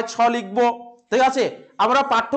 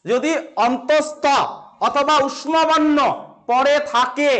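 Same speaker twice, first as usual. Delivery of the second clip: slow dictation; much slower than usual. Shown as a demonstration. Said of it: "teacher dictating the rule slowly".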